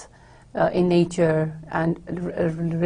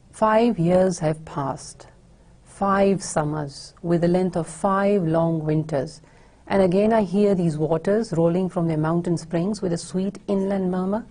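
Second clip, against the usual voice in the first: poem recitation. Acted. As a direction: read the verse aloud, lingering on the opening phrases. Reads the poem aloud.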